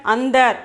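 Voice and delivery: "Andar" with a short n sound before the d; nasal before the d. Shown as a demonstration. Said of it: "we have to pronounce ind".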